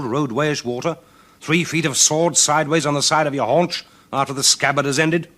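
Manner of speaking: a proud king scolding a ragged stranger; angry king. Acted. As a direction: build from stern to loud indignation. King Donald interrogates the stranger.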